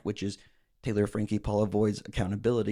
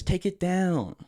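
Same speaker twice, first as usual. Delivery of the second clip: Holy Spirit voice; 7 semitones higher, slower than usual. Retold or imitated. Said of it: "the Holy Spirit says".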